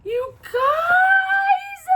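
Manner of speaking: very high, loud, drawn-out cry of joy; overwhelmed squeal. Real, not acted. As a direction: wail it out, overcome with delight. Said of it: "am gonna cry".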